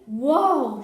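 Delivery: loud, high whoop; shouted. Acted. Boy cheering their getaway, shouting loudly. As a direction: yell it out in triumph. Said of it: "shouted Rahul".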